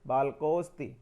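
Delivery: बालकोस्ति with the अ barely sounded after को; near-silent अ. Shown as a demonstration. Teacher demonstrating the avagraha sound, अ nearly silent in बालकोस्ति. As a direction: let ओ run into स्ति in बालकोस्ति, अ almost silent. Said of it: "पूरा अ नहीं होता है, थोड़ा सा silently अ होता है".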